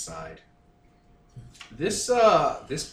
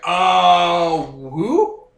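surprised character voice; 5 semitones higher, 9 dB louder than usual. Acted.

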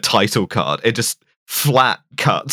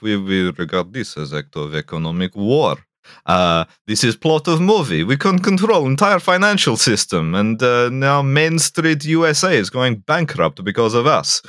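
lightly done bad Russian accent, clipped grammar; a hint of a movie Russian diplomat, half-joking; mock Russian accent; 3 semitones higher than usual. Mocking the film's Russian villain in a lightly voiced Russian accent. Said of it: "we'll talk about some bad Russian accents".

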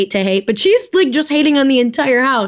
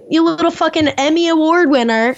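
mock outraged rant; 4 semitones higher than usual. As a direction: tear into her like she's a fraud. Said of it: "which I'm like".

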